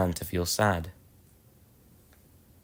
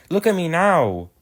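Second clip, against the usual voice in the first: proud little engine; 8 semitones higher, 4 dB louder than usual. Acted. Edward proud while puffing.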